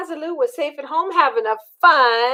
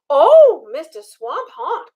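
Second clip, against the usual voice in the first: Liza Lou crying out; 2 semitones higher than usual. Acted. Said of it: "cried Liza Lou".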